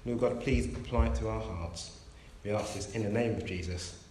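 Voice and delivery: gentle, steady prayer voice. Acted. Preacher opening the service in prayer to God. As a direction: lead the congregation in prayer.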